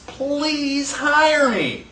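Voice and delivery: slow, high, pleading plea; begging. Retold or imitated. Jobless man begging an employer for work, slow and pleading. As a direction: drag it out like a desperate job seeker. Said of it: "you had people begging for jobs".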